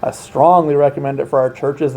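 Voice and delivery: "strongly" firmly emphasized as the key word; stress on strongly. Real, not acted. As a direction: put the weight on "strongly". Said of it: "I emphasize that word strongly".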